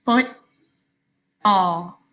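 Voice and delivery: very slow, a long gap between foot and ball. Shown as a demonstration. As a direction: pull Football apart into two separate syllables. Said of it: "Now slow it down".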